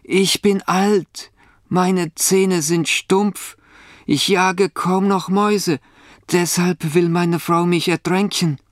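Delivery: high-pitched voice of a miserable cat; woeful cat. A narrator's reading. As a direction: lament in a high storybook cat voice. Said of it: "antwortet die Katze".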